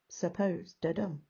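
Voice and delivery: "suppose" matched to "da-dum"; iambic beat. Shown as a demonstration. Teacher matching word to beat, iambic stress. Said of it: "that counts as a da-dum".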